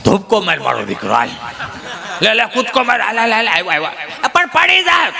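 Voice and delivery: lightly voiced old grandpa egging the boy on; urging grandfather. Grandfather on the cot urging the grandson to jump, lightly voiced. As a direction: cheer the little one to jump.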